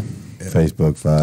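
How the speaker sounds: low, slow title-card voice; a deep dramatic intro to a track; song title announcement. Acted. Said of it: "That should be a name of a song right there".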